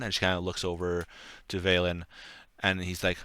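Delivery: normal talking voice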